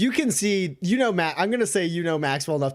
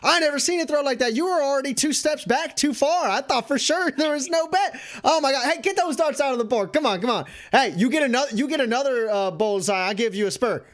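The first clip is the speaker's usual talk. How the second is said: much higher, fast excited chatter; excited bartender shouting; 9 semitones higher than usual. Acted. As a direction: rattle it off in disbelief. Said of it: "shouting out".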